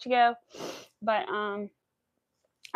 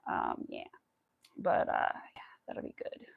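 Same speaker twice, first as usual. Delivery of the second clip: choked up; 7 dB quieter than usual. Real, not acted. Choked up saying goodbye live.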